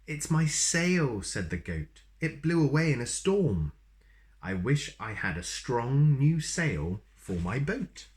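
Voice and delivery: goat voice. Acted.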